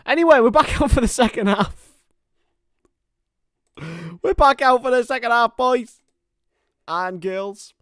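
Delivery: high, hyped-up shout to the audience; loud announcement. Real, not acted. Streamer rallying viewers for the second half, loud hyped shout. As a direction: call everyone back at full volume.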